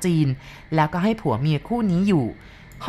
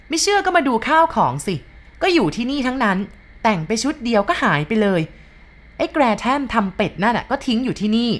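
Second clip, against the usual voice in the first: shouting after them; 6 semitones higher than usual. A narrator's reading. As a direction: yell it after them as they leave. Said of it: "ร้องตะโกนส่งท้ายมาอีก". (ตะโกนไล่หลังเสียงดัง)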